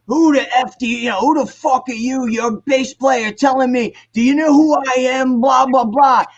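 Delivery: mimicked high-pitched angry tirade; irate club owner. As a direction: tear into the kid like an irate owner. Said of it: "and the owner goes".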